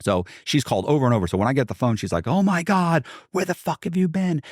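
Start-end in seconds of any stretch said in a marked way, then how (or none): 2.3-4.4 high-pitched imitation of a panicked caller; frantic. Partner finally reaching him by phone, mock frantic.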